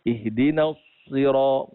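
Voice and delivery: "Ihdinas sira-" with pushed-out lips; wrong pouted sad. Shown as a demonstration. Teacher showing the error before rejecting it. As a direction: round the s in "Ihdinas".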